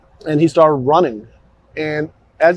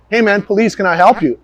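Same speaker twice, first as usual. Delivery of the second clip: higher, raised call to a stranger; retold police call-out; 5 semitones higher, 4 dB louder than usual. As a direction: announce yourself as police, pitched up. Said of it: "And I immediately said".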